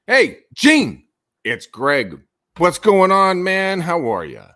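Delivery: high, loud, bubbly phone hello; high-energy greeting. Shown as a demonstration. Salesman greeting a client with big upbeat energy. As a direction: greet him like an old buddy. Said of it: "that persona of energy".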